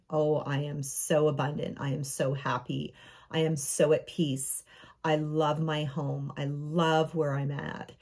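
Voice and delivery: low, unhurried gratitude; contented affirmation. Shown as a demonstration. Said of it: "get into that energy".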